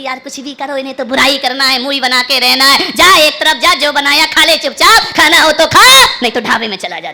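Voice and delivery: loud exasperated rant; wife snaps at a picky husband; fed-up wife. Retold or imitated. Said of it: "लेकिन पत्नी सोचती".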